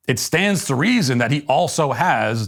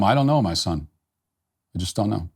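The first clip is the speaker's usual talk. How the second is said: lower, resigned mock-solemn reply; mock helpless father; 4 semitones lower than usual. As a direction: play a lost father answering his son, understated. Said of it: "I'm just as confused as he is".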